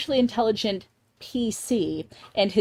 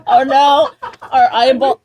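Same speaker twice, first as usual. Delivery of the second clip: laughing mock dismay; 4 semitones higher, 6 dB louder than usual. Mock dismay, eyeball lord gone.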